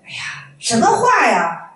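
slow, drawn-out disapproving "哎呀，什么话呀"; mild drawn-out rebuke; critical tone. Retold or imitated. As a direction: stretch out "哎呀，什么话呀" like a master scolding a student. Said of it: "就问批评的语气说的啊".

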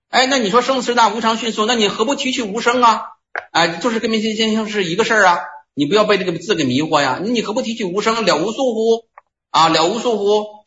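high-pitched, probing master's voice; voicing the Sixth Patriarch. Sixth Patriarch questioning the monk, in a high probing voice.

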